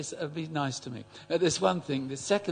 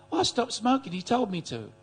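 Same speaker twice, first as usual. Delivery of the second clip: put-on old lady voice; 7 semitones higher than usual. Old lady tells her story.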